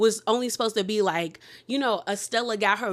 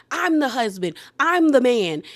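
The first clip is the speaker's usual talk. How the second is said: mock indignant; 2 semitones higher, 6 dB louder than usual. Sergio voiced, asserting himself.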